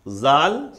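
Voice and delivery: زال as a separate letter name, loud, long vowel; distinct pronunciation. Shown as a demonstration. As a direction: sound out زال clearly on its own. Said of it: "ہر ایک کا تلفظ الگ ہے".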